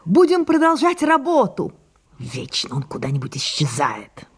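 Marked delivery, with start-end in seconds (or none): 0.0-1.7 raised voice. Acted. Sarah after shouting.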